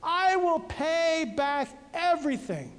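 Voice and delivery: a mild, understated plea to be trusted; a hint of desperate pleading; begging. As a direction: promise it as a light, lightly acted beg. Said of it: "he begged".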